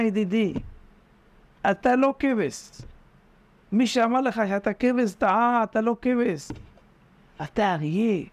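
drip the lie in gently and sweetly; coaxing flattery. Retold or imitated. Tempter sweet-talking the frightened sheep, high coaxing voice. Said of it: "מטפטף לו לכבש".

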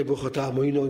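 put-on "עמינוי" as "amoinoy", ending like "boy"; Ashkenazi pronunciation. Rabbi conceding the other side's custom, Ashkenazi pronunciation. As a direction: give "עמינוי" rounded "oy" vowels. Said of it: "אתם מנהג שלכם".

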